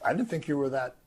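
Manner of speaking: high, over-the-top impressed; mock gushing praise. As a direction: fake amazement at Peter's answer. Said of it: "Jesus doesn't say".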